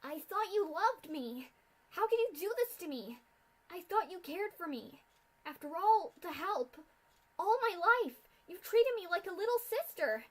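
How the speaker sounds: tearful shout rising to a near scream; crying and shouting. A narrator's reading. Filly shouting through tears at her idol. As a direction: sob it out at the sister who betrayed her. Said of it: "Her throat hurt from the crying and shouting".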